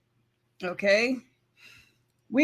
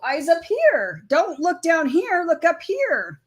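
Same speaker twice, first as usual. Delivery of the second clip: higher, drawn-out mock telling-off; mock scolding; 5 semitones higher, slower than usual. Telling partner where to look, mock scolding. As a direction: playfully order their eyes upward. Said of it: "That's what I say to you".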